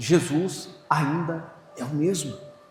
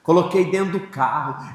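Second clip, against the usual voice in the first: ordinary talk, nothing marked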